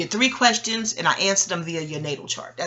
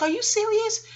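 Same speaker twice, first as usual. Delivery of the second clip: much higher, incredulous squeal; disbelieving. Retold or imitated. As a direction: ask it in sheer disbelief. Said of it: "I was like".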